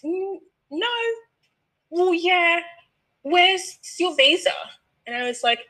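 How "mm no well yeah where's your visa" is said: mock agent. Imitating check-in agent.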